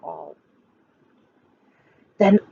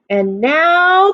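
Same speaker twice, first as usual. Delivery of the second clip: higher, excited call; crying out; 7 semitones higher, 3 dB louder than usual. Acted. Max declaring the rumpus to the wild things, excited. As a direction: announce it like a king. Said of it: "cried Max".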